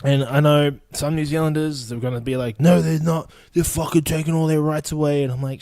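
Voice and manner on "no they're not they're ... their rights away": higher, whining imitation of a complainer; mock indignant objector. New Zealanders objecting to his view, mock indignant. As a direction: protest in a put-on aggrieved voice.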